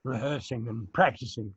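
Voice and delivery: hoarse, losing voice; rough hoarse voice, clearing throat. Real, not acted. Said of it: "I'm losing my voice now".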